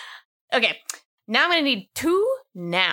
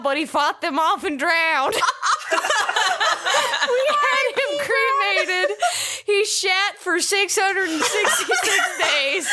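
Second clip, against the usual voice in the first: put-on Southern accent. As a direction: read the letter in a Southern accent, laughing through it. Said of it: "I gotta do some of my southern accent".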